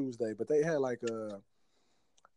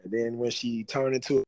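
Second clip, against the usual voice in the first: ordinary talk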